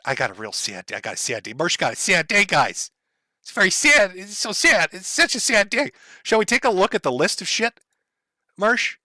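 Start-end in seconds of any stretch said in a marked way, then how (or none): 0.0-5.9 mock-pitiful whimper, lightly voiced; sarcastic baby voice mocking his sad day; mocking whiny sad voice. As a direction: parody a whiny crybaby complaining. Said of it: "you needed that".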